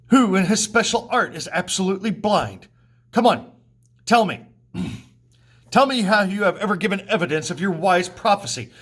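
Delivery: reading a tragedy's lines aloud in class with some heat; dramatic play reading. Acted. Student reading the Oedipus and Tiresias scene aloud for class, with some heat. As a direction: read the quarrel like a stage scene.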